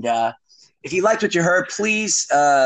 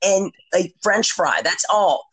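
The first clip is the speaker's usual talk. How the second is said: slow, higher, spaced-out words; drawn-out, higher-pitched recital; kids spelling out order; 6 semitones higher, slower than usual. Retold or imitated. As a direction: imitate kids ordering slowly and carefully. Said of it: "We're like".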